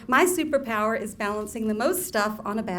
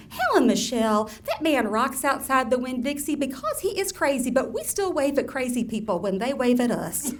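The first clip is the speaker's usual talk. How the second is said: lightly voiced Southern mama. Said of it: "mama's etiquette for the insane".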